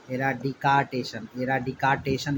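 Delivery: "एराडिकाटेशन" sounded out as era-di-KAA-tay-shun; spelling pronunciation. Shown as a demonstration. Teacher showing how to remember the spelling, sounded-out pronunciation. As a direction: give "एराडिकाटेशन" a long KAA and every syllable. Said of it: "याद रखेंगे".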